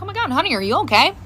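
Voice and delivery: mild motherly worry; retold concern, no laughter; a little concerned. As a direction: gently check on a child. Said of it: "I was a little concerned".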